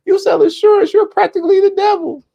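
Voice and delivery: squeaky very high quote, breaking into laughter; laughing movie quote. Retold or imitated. Streamer quoting the devil line to viewers, squeaking with laughter. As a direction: squeal the line while cracking up. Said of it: "He said".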